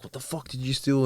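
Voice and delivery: brother going off. Retold or imitated. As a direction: imitate an angry brother's demand. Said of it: "my brother's going off".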